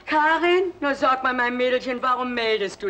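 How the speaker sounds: high, loud cheerful calling of Karin; mother greets Karin on the phone, overjoyed; delighted phone greeting. Acted. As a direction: greet her like a long-lost darling.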